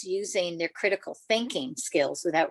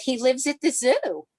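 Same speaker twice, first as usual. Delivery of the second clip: put-on little girl's answer; 5 semitones higher, 3 dB louder than usual. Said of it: "And she said".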